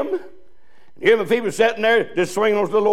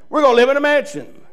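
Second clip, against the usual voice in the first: "We're gonna live in a mansion" said again with rising joy; joyful repeat; 4 semitones higher than usual. Shown as a demonstration. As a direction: lift "gonna" with delight on the repeat.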